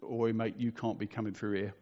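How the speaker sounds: imitating a bloke's rough British accent; lightly dramatised working-man British accent; put-on British bloke accent. Bloke in fluorescent jacket stops the speaker walking through, put-on British accent. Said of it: "probably not in that accent".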